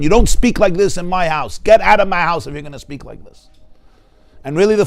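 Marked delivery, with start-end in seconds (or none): 0.0-3.5 imitating an angry father. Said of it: "a father will scream at them".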